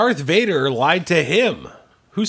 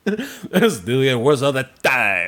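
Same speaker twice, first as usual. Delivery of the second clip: Lando impression; 3 semitones lower than usual. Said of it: "who did that voice".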